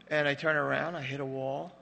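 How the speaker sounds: ordinary talk, nothing marked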